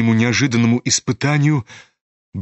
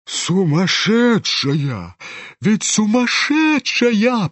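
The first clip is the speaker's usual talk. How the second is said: second cry jumps much higher, slow; agitated general; 5 semitones higher, much slower than usual. Acted. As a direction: pester him in alarm. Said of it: "приставал генерал к Тоцкому". (генерал взволнованно твердит)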